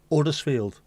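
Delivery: Uddersfield said with no H at the start; dropped H Uddersfield. Retold or imitated. Mocking the pronunciation to a friend, Uddersfield with no H. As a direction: drop the H of Huddersfield, Uddersfield. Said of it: "That's Uddersfield with a capital apostrophe".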